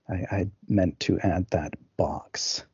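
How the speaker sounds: whispered aside; whispering. Real, not acted. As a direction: say it under your breath. Unvoiced aside.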